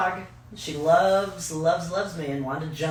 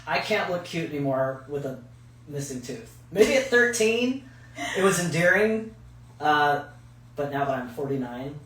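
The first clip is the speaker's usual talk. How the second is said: talking around a retainer; speaking with a retainer in; wearing a retainer; 3 semitones lower, 4 dB quieter than usual. Real, not acted. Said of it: "wearing this retainer that's kicking my ass".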